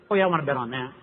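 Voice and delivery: dry mock enthusiasm; sarcastic. Gambler scoffs at the odds to the crowd, sarcastic. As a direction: pretend to take the bet, clearly not meaning it.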